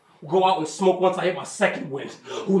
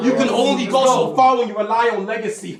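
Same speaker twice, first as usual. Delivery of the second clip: louder repeat; 3 semitones higher, 6 dB louder than usual. Shown as a demonstration.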